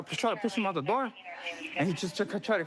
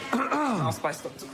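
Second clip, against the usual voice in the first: laughing; 4 semitones higher, much slower than usual. Real, not acted. Joke after pepper spray.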